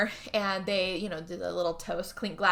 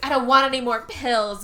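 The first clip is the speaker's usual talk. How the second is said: protesting refusal; 4 semitones higher, 7 dB louder than usual. Retold or imitated. Wife refuses pills in argument.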